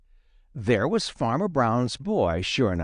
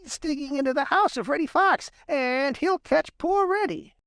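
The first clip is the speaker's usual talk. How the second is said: urgent and excited. Acted. Peter alarmed for Reddy.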